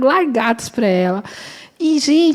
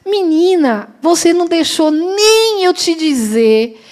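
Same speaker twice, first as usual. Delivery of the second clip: reassuring friend; 5 semitones higher than usual. Retold or imitated.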